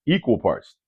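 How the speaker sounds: "Equal" leaned on, heavy and firm; stress on equal. Shown as a demonstration. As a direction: hit the word "Equal" hard. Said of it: "Emphasis on the word equal".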